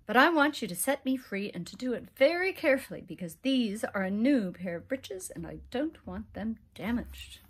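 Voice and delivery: quick, pushy little leprechaun. Acted. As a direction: hurry him along in a fast fairy voice. Leprechaun demanding careful release.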